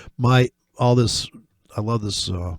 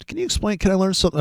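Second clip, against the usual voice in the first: much higher, whiny pleading student; high mock plea of a pestering fan; mocking viewer voice; 8 semitones higher, much faster than usual. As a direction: parody a needy viewer begging.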